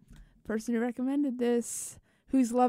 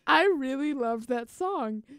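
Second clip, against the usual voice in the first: laughing; 3 semitones higher than usual. Real, not acted. Stop making me laugh.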